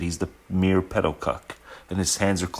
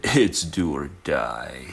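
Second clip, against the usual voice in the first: phlegmatic man; 4 semitones lower, slower than usual. Retold or imitated. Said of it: "the phlegmatic man said".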